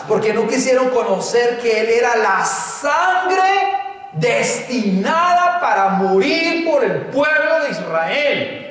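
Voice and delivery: preacher's rhetorical questions, answered with weight; emphatic preaching. Real, not acted. Preacher asks the congregation why Jesus wept, emphatic preaching. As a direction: preach it to the congregation, stretching the key words.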